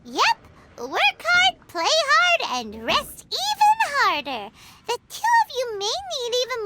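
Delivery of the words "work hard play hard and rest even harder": cheery motto. Acted. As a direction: belt out the motto with a grin. Paimon cheers a catchy motto.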